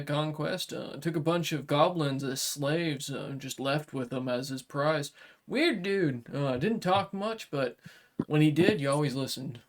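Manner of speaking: a blunt samurai making a deal; dragonkin warrior. Acted. GM voices Kuroshiba.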